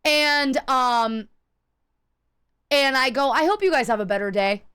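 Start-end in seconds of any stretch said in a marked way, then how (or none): 3.3-4.6 sarcastic sweet goodbye, voice dipping; pointed farewell. Retold or imitated. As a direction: wish them well with a bite. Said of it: "Just like that".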